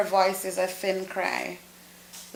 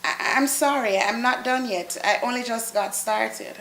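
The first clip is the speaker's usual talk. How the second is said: flustered apology; 3 semitones higher than usual. Acted. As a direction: stammer it out, caught in the act. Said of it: "stepping hurriedly away".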